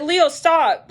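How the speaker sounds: calling out. Retold or imitated. Shopper halting Leo in a supermarket aisle, calling out. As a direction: stop someone in their tracks.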